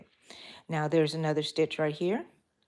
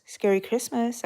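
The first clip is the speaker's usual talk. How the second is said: spooky greeting; 6 semitones higher than usual. Retold or imitated. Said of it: "I would tell everybody".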